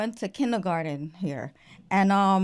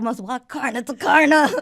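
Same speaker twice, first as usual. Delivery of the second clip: louder Guyanese "karna to karna"; Guyanese accent; 3 semitones higher, 6 dB louder than usual. Retold or imitated. Cousin repeating slang to confused kid, Guyanese accent. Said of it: "He's like".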